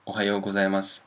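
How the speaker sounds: Ohayo gozaimasu ending on a plain s; silent final u. Shown as a demonstration. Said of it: "You might not pronounce the last su".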